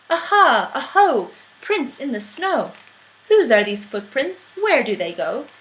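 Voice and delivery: put-on mouse teasing child's chant; mocking mouse. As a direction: chant it back triumphantly.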